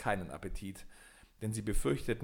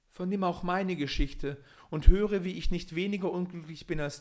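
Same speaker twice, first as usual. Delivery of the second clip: owl voice; 7 semitones higher, 6 dB louder than usual. A narrator's reading. Owl begins her story.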